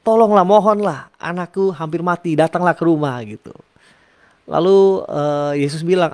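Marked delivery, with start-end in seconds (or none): 0.0-3.2 begging father. Retold or imitated. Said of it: "dicerita sama Yesus".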